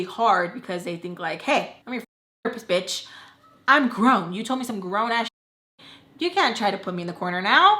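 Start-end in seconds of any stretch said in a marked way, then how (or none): 1.4-7.7 fast, loud mock sass at mom; sassy comeback. Teen mouthing off to her mom, fast and loud. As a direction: snap back like a grown-up teen.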